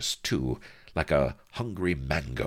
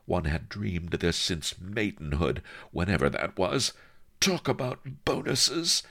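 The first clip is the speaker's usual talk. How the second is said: sultry mistress; 3 semitones higher than usual. Acted. Anne Bonny voice.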